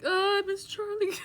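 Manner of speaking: high, loud wail of missing someone; hammed-up longing; mock lament. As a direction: exaggerate the pining, then laugh. Acts out missing the child.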